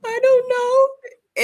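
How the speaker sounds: high, drawn-out mock cry; loud, stretched childish whine; imitating wailing child. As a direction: wail it slowly like a tearful kid. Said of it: "And she's like".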